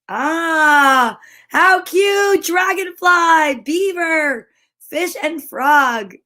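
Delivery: delighted squeal. Real, not acted. Finding the river animals, delighted squeal. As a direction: squeal over the cute picture.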